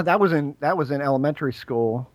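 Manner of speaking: tired, fading voice; losing voice. Real, not acted. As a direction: voice giving out after long talk. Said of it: "I've completely lost my voice".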